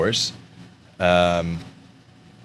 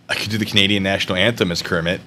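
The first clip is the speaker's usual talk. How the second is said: normal talking voice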